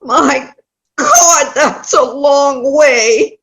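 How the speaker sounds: puffing and wheezing after the walk; out of breath. Acted. Old woman arriving breathless at the door, winded. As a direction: gasp it out like the walk wore you out. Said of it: "hunched over her walker and out of breath".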